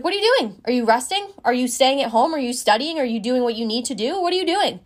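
rapid-fire questions from an imitated coach; coach slightly raising his voice. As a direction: grill the athlete, pitch jumping on the opening and closing question. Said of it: "raising his voice slightly".

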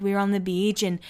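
mock serious, understated brag; happy news told with put-on nonchalance; acting really cool. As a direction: imitate her playing it cool. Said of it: "just act really cool".

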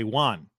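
"Juan" with an open ah vowel; imitating cohost's "one". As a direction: say "Juan" as WAHN, mimicking cohost. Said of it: "the weird way that Kyle says".

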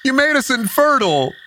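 indignant clown runner. Acted. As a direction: play the wronged clown complaining at the party. GM voices the clown.

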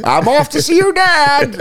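high squeaky puppet voice. Pretend. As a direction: chirp it like a sock puppet. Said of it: "she's like".

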